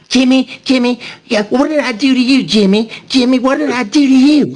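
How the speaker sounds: high, whining mimicry of Buffy; mock him as a whiny pleader. Mocking Buffy's whiny plea.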